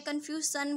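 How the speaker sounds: कन्फ्यूजन with s for zh, 'kan-fyoo-san'; quick 'kan-fyoo-san' for कन्फ्यूजन; mispronounced confusion. Shown as a demonstration. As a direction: say कन्फ्यूजन wrongly with a plain s. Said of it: "तो ऐसे नहीं बोलते इसको".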